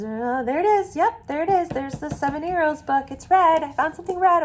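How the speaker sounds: high, bright discovery voice; delighted, you just spotted it; excited finding. Shown as a demonstration. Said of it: "demo finding red".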